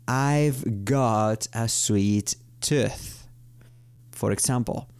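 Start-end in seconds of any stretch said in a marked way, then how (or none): 0.1-3.3 even slower, deliberate repetition. Shown as a demonstration. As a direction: stretch the example out further. (repetición aún más lenta)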